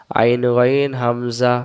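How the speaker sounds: whispered slow recitation. Shown as a demonstration. Teacher whispers the drill for students. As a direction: whisper the letter names slowly.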